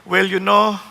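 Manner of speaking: low, slow captain's announcement voice; mock pilot apologizing over the speakers; airline captain. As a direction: speak down and slowly like a pilot on the intercom. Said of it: "Sasabi nung kapitan".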